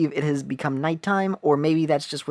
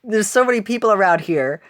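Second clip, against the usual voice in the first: excited detective; 4 semitones higher, 6 dB louder than usual. Retold or imitated. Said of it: "she's just like".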